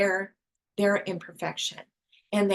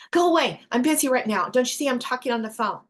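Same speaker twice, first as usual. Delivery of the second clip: annoyed busy parent; 2 semitones higher, faster than usual. Retold or imitated. Busy parent brushing child off.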